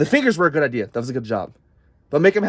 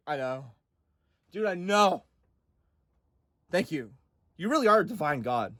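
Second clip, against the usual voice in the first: much softer self-satisfied murmur; smug Satan; 8 dB quieter than usual. Acted. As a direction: accept praise quietly. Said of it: "Satan's like".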